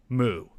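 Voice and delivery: low drawn-out moo; cow moo. Pretend. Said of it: "I added the moo in the end for effect".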